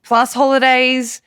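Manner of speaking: slow, pointed retold list of costs; indignant listing. Boss answering a cheeky staff member, indignant listing. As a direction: count each item off indignantly, with weight.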